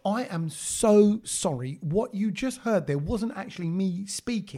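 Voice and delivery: slow, deliberate posh English; lightly put-on posh white-English voice; posh Gora voice. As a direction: put on a proper posh accent to apologize. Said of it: "my proper posh Gora voice".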